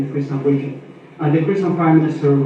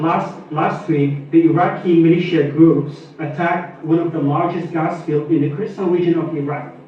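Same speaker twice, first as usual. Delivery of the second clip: a bit louder, projected question; speaking up. Real, not acted. Reporter repeating a question after being asked, speaking up. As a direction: repeat it so the room can hear. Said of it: "take fewer words and louder".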